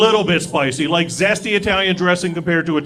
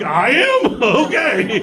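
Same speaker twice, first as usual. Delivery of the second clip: higher, tickled questioning voice; pleasantly flattered, pitched up; charmed mock surprise; 5 semitones higher, much slower than usual. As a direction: play charmed by an adorable accusation. Acting out being charmed by accusation.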